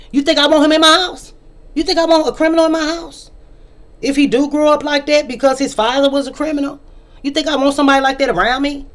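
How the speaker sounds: high, loud indignant outburst; rising fury at the idea; heated rant. Real, not acted. Ranting about a criminal son.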